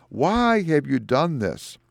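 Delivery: preacher imitating a frightened crowd; mock panic. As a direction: drag out the alarmed protest. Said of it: "they are in panic".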